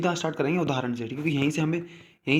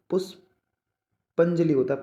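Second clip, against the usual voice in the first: slow clear demo; much slower than usual. Shown as a demonstration. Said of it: "पुष्पांजलि नहीं होता भाई".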